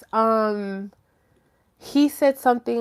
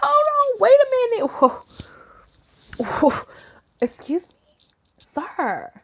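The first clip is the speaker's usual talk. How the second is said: indignant; 13 semitones higher than usual. Retold or imitated. Telling off the guy who insulted women, high indignant. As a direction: rise up high in outrage.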